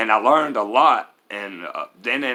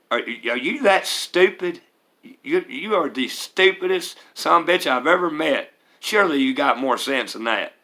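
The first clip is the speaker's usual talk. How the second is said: mocking stepdad insult; 4 semitones higher than usual. Stepdad insulting him, retold.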